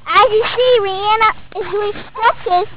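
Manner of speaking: loud vlog narration. Real, not acted. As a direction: narrate loudly to the camera.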